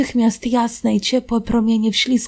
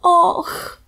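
whispered och; 8 semitones higher than usual. A narrator's reading. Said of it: "szepnęła Calineczka".

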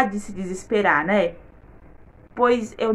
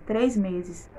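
softer, lower echo of três meses; quiet echo; 5 semitones lower, 9 dB quieter than usual. Real, not acted. Repeating to viewers how long they stayed, softly echoed. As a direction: let três meses fall away softly.

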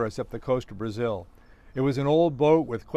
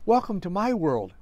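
captain's raised, higher voice; high-pitched captain; 6 semitones higher than usual. A narrator's reading. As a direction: greet them in a surprisingly high voice. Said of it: "a surprisingly high-pitched voice".

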